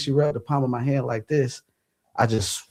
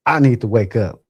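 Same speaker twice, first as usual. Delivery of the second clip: louder, mildly frustrated self-command; getting mad; 5 dB louder than usual. Retold or imitated. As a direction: push it out, a touch angry. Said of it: "Now I'm getting mad".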